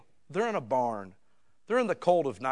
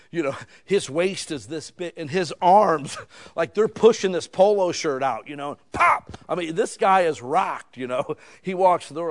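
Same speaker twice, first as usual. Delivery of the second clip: excited laughing description; 6 semitones higher, 12 dB louder than usual. Real, not acted. Describing the Hulk-sized contractor.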